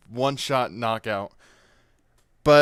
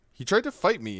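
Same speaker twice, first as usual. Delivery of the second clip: defensive protest; 8 semitones higher than usual. Retold or imitated. Defending himself to her.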